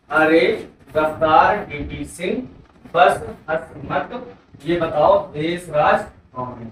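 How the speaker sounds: slow, spaced-out chant of the trick; slow mnemonic recital. Shown as a demonstration. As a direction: drill the whole rhyme slowly for students. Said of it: "क्या मंगी trick आपकी?". (धीमी गति से trick दोहराना)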